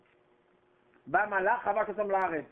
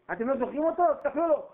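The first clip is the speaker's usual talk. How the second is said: urgent plea; 9 semitones higher, 3 dB louder, faster than usual. Acted. Preacher acts out Joseph's plea.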